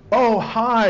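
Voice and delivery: stoned passenger. Retold or imitated. Stoned passenger greets the officer, goofy mock hi. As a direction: beam it out like a happy stoner. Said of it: "And he goes".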